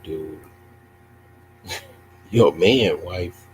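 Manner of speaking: normal talking voice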